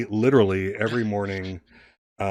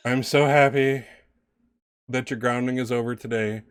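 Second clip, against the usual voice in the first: extra dramatic; 3 semitones higher, 4 dB louder than usual. Acted. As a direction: play the overdramatic little performance, leaning hard on key words. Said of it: "everything is extra drama filled".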